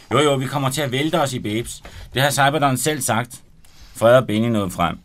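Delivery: lively read-aloud narration with voiced characters; story narration. Author reading his novel aloud on radio, animated. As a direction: read the chapter to the studio audience with energy.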